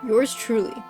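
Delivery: theatrical villain voice; villain monologue. Acted. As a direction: gloat like a storybook villain.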